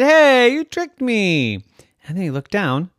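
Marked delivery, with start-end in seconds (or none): 0.0-1.6 indignant hey. Acted. Nicholas realises he was tricked.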